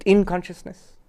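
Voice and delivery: "in" picked out with emphasis before "consciousness"; stress on IN. Shown as a demonstration. Teacher stressing a key point to the class, stress on "in". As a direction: lean on the word "in". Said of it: "I'm giving stress on the word in".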